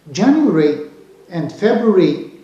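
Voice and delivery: January and February said the British way, endings shortened; British English pronunciation. Shown as a demonstration. Teacher showing learners British month names, British English accent. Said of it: "this is British English".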